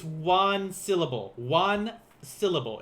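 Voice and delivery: slow, heavy stress on "One" in "One syllable"; "one syllable" spelled out slowly, ONE drawn out; emphatic ONE. Shown as a demonstration. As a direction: lean hard and long on the word "one". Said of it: "be careful with this kyo".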